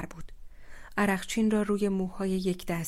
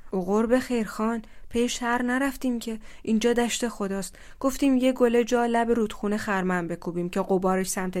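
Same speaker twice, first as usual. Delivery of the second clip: defensive; 3 semitones higher, 5 dB louder than usual. Acted. Young man answers the angry uncle.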